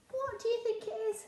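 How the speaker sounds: high, bright question to the class; high, encouraging teacher question; curious teacher question. Shown as a demonstration. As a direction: ask the children to guess. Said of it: "asking children to guess".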